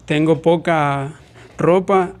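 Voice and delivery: "tengo poca" slowly, with a clear voiceless P in "poca"; slow example phrase; minimal pair example. Shown as a demonstration. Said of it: "no es lo mismo decir".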